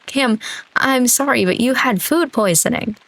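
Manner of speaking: high, defensive apology; pleading apology. Acted. Defensive apology to betrayed friend.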